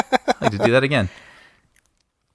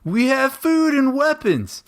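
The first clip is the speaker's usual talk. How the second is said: mock Russian accent; 14 semitones higher, slower than usual. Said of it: "you still sound like you're from Iowa".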